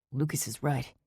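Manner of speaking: pained. A narrator's reading. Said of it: "so much pain in his voice".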